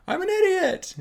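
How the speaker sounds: high, snide mock Grinch; imitating the Grinch calling himself an idiot; Grinch impression. Grinch answering his echo, high mock voice. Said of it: "And he goes".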